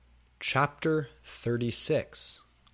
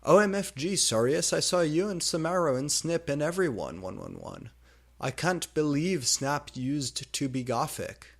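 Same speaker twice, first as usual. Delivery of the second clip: high, loud gushing; excited squeal; 5 semitones higher, 4 dB louder than usual. Acted. Heroine gushing at Sirius, excited. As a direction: gush at your friend. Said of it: "friends reunite, excited".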